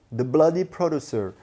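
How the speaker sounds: lightly imitated British accent, drawn out; British presenter's accent. Vlogger repeating the presenter's favourite expression, hint of English accent. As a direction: quote his catchphrase in approximate British English. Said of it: "avec son accent anglais".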